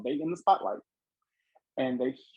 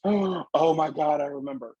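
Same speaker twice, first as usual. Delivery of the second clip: stunned realisation; 4 semitones higher than usual. Retold or imitated. Client finally recognising her grandparents: slow, stunned realisation. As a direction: let the memory hit her all at once.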